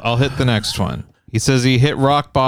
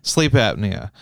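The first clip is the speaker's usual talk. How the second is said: higher, halting mock-wheezy voice; nasal fat-guy caricature; 4 semitones higher, slower than usual. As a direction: speak through the nose with laboured pauses. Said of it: "It's in his nose".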